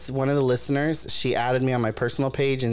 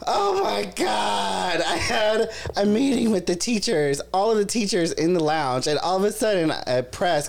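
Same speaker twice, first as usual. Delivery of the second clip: higher and breathless, mock frantic; panicked friend; 8 semitones higher than usual. Host imitates mortified friend recounting the meeting, mock frantic. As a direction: act out her frantic panic, half laughing.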